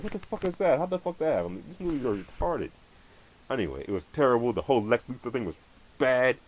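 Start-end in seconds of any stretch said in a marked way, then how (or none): 0.0-2.7 higher, baffled disbelief; incredulous outburst. Retold or imitated. Ranting about the movie's bullet scene, higher and incredulous. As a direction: throw up your hands in higher disbelief. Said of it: "I was like".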